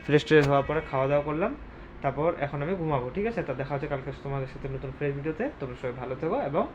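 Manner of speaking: low, soft voice while others sleep; quiet late-night murmur to the camera; hushed night talk. Real, not acted. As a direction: keep it down, everyone's asleep. Late night, sign-off before sleep.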